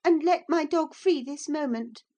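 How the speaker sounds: put-on high, loud child's command; bossing the servant woman; exclaimed order. A narrator's reading. Cathy orders the woman about, high and bossy. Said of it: "continued order".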